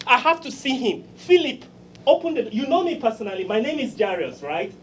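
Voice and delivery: pushy Jairus. Retold or imitated. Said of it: "calling in his connection".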